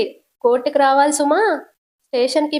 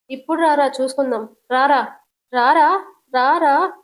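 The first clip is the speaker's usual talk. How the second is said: fight challenge. Acted. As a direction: call him out to fight. (గొడవకు రమ్మని సవాల్)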